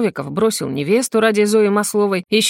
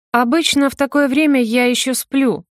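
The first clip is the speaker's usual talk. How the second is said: haughty, higher lifted voice; 6 semitones higher than usual. A narrator's reading. Blonde answers the investigator haughtily. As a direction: say it proudly with the head tossed up. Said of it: "гордо вздёрнув голову".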